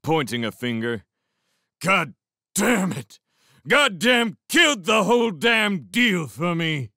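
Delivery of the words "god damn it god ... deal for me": put-on loud, high, drunken rage; furious yelling. A narrator's reading. Drunken beast rages at the older horseman, yelling furiously. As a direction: bellow each word in fury. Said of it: "yelled the beast".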